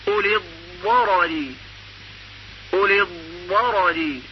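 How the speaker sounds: اولی الضرر with emphatic zad; teacher modelling; model pronunciation. Shown as a demonstration. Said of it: "زاد مفتوح مثل".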